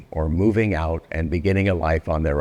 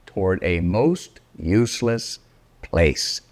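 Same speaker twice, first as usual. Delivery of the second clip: expressive read-aloud of a rhyming picture book; storybook reading. Acted. Reading Oh, the Places You'll Go aloud to grown-up listeners, lively storybook narration. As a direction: read it like a bedtime rhyme, savouring each line.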